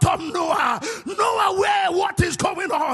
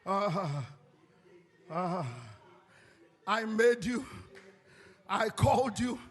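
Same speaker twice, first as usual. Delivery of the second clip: much softer, low, intimate voice speaking as God; soft prophetic voice; 6 semitones lower, 6 dB quieter than usual. Acted. Preacher voicing God softly to the listener, hushed and intimate. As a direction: drop to a hushed, tender prophecy.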